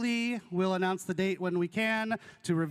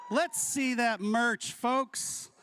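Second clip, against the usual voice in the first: hype announcer call; 5 semitones higher, much slower than usual. Real, not acted. Hyping up merch shout out.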